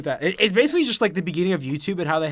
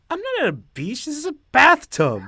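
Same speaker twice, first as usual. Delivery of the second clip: quoted video voice; 10 semitones higher than usual. Retold or imitated. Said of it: "quoting a remembered video".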